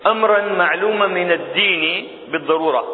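ordinary talk, nothing marked

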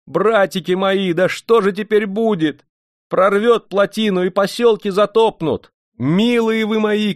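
very high, keening lament; frightened wailing. A narrator's reading. Village woman fearing the dam will burst, frightened wailing. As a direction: wail in panic on a sustained high pitch. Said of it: "заголосила вдруг".

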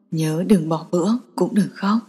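low, soft, gentle male voice; low warm voice. A narrator's reading. Boyfriend comforting her on the phone, low and gentle. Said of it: "giọng anh vẫn luôn trầm thấp, ấm áp".

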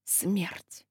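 very soft, low dying murmur; mutter. Acted. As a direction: breathe the word in defeat. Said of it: "она бормотала".

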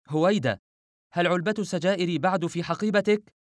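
high-pitched, panicky questioning; hysterical cry. Acted. Refaat on the phone to Howaida about the box, hysterical. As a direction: call out in panic without much added volume. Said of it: "فصرخ رفعت في هستيريا".

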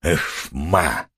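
low, soft weary grumble; resigned grunt. A narrator's reading. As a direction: mutter in annoyance. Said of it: "проворчав".

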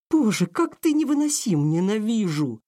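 high, venomous cry of hatred. A narrator's reading. Aurora, enraged by Randall, cries out venomously. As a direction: spit every word with venom. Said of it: "вложила в слова весь свой яд".

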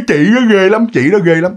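lightly imitated whining child; mild mock toddler whine; a hint of a scared child repeating; crying toddler. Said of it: "Cái nó cứ".

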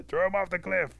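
high, loud pack cry; mob shout. Acted. All the wolves sentencing turtle, shouting. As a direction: shout it as one angry crowd.

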